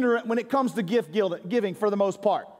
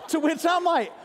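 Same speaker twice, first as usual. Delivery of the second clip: high, laughing through the words; 8 semitones higher than usual. Real, not acted. Pastor telling the congregation about his wife's gift, laughing. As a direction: laugh at your own mistake as you say it.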